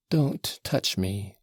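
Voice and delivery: slow faltering plea; imploring. Acted. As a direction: beg him to stop, slowly. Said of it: "she faltered in an imploring voice".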